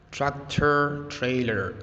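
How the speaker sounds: slow American "Tractor trailer" with rolled r; American accent. Shown as a demonstration. Teacher modelling "Tractor trailer" in an American accent. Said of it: "This is how it is called and pronounced in America".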